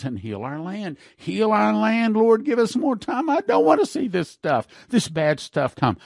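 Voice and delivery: pleading prayer. Acted. Preacher praying to the Lord for his country, pleading.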